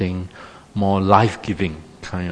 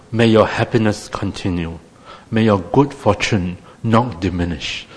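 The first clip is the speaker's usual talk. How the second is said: stiff Victorian formality. Shown as a demonstration. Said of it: "very Victorian, like very stiff upper lip".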